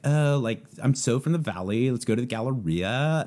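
lightly mimicked Valley Girl; a touch of stereotypical Valley Girl lilt. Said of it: "stereotypical idea of the Valley Girl".

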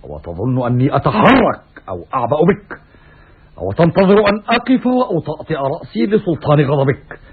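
ordinary delivery

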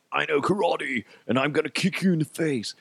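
high, taunting schoolboy voice; mimicked boastful kid. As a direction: crow it like a little karate show-off. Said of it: "he said some things like".

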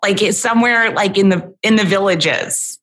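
playful put-on Cockney; rough-and-ready mock Cockney; Cockney accent. Imagining her British self, joking Cockney.

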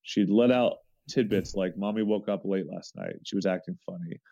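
measured, even read-aloud delivery; story reading. Acted. Man reading out a babysitter's account of a neighbor girl, story reading. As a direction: read a personal story aloud, steady and sincere.

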